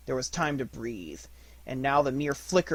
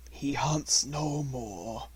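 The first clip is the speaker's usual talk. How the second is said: mournful; much slower than usual. A narrator's reading. Gray Brother mourns a comrade.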